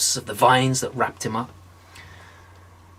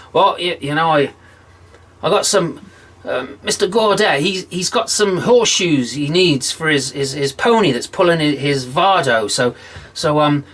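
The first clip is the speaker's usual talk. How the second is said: higher, stammering stall; stalling John; 3 semitones higher than usual. Acted. John stalling the devil, stammering higher. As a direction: fumble for excuses. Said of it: "he says".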